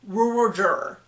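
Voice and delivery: "Rural juror" run into one muddy word; "Rural juror" with the middle sounds swallowed; mushed together. Shown as a demonstration. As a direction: blur the r's and l of "Rural juror". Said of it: "that is a mush".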